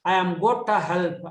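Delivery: casual slangy "గోట్టా help"; American slang gotta. Shown as a demonstration. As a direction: say "గోట్టా" as a clipped "gotta" instead of going to. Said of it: "going to అనే దాన్ని గోట్టా అంటుంటారు".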